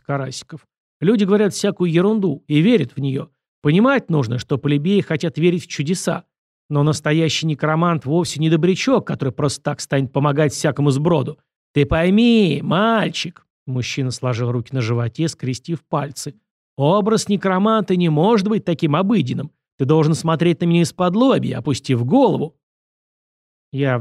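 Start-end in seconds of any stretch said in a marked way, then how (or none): 1.0-13.5 emphatic, lightly acted lecturing; condescending director driving the point home; patronizing director. 16.8-22.6 higher, animated stage direction; lightly voiced director coaching an actor; instructing director.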